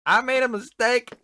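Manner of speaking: high, loud, slow pleading apology; hammed-up contrite little voice; mock apologetic mob. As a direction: play a sheepish creature saying sorry. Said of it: "I got the impression of".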